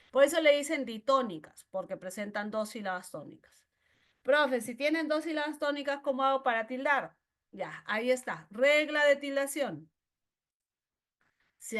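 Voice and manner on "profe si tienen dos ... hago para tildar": voz ligeramente imitada de alumno, más aguda y rápida; pregunta de alumno. Pretend. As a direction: imitar un poco a un alumno que pregunta al profe. (alumno preguntón, levemente actuado)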